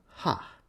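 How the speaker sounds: a brief read-out laugh, softly puffed; single laugh. A narrator's reading. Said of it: "maybe she will laugh again".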